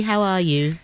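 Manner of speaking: normal talking voice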